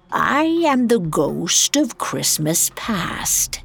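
slow, otherworldly ghost; solemn spirit voice. Acted. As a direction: announce yourself like an ancient spirit. Spirit announces itself.

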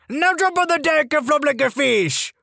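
high, far-off sergeant yell; barking drill sergeant. Retold or imitated. Sergeant orders recruit to flop like fish, high mocking bark.

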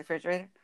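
"refrigerator" minus RE; soft, low "frigerator" for "refrigerator"; colloquial refrigerator. Shown as a demonstration. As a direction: start "refrigerator" at the FR. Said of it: "we say refrigerator".

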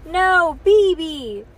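loud, high clingy wail; toddler protest. A narrator's reading. Toddler refusing new sister for Bean, loud high protest. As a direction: insist like an upset toddler.

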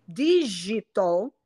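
Digital bem devagar, G inglês; digital correto. Shown as a demonstration. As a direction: diga Digital pausado, som de dj inglês. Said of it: "Isso é aportuguesamento". (Digital em inglês, muito lento)

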